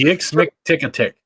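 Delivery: backwards speech. Shown as a demonstration. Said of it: "say it backwards".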